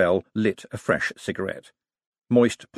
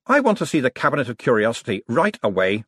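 demanding; 2 semitones higher than usual. Acted.

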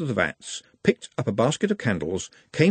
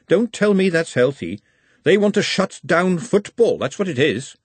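put-on raised, suspicious young woman; Glenda's voice; 5 semitones higher, 3 dB louder than usual. A narrator's reading. Glenda warning Trev about the wizards, in a raised suspicious voice. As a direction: lay out the conspiracy, higher and louder.

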